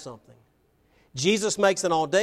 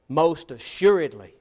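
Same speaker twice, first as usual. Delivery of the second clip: firm, low-pitched assertion; emphatic; 3 semitones lower than usual. Acted. Jesus answering his challengers, emphatic. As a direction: land "Most assuredly" firmly. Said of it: "Jesus' answer is emphatic".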